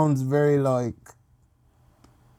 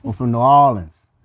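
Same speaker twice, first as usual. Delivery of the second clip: low, drawled Atlanta-style Southern voice; Southern accent; 5 semitones lower, 4 dB louder than usual. Acted. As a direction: pass yourself off as a Southerner. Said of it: "from Atlanta or the South".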